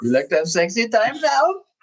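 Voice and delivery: very high, jokey, goofy put-on comic voice. Answering the other speaker's Borat line: Borat voice. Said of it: "The first Borat was too fucking funny".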